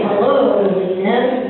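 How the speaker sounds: lightly imitated low-pitched hello; Paul Eppinger's greeting. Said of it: "That's how he, he would call me".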